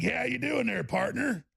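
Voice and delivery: hammed-up folksy Texas accent; put-on Texas accent. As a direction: greet like a stage Texan, accent laid on. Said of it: "with my Texas accent".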